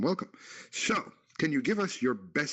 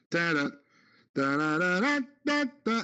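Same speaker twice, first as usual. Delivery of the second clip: imitated horn; 5 semitones higher than usual. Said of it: "That sounded like this to me".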